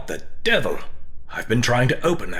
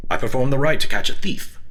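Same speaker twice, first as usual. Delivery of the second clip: louder, high, affronted declaration; indignant outburst; 5 semitones higher, 5 dB louder than usual. Acted. Elise protesting to the others, louder and offended. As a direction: insist on it, offended. Elise defends her ritual.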